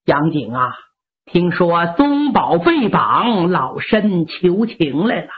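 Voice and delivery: put-on an elderly mother begging gently; old mother pleading for her grandson.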